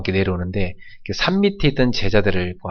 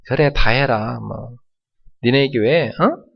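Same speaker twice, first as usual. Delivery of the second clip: taunting devil; 3 semitones higher than usual. Retold or imitated. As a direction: jeer at the church. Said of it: "조롱합니다".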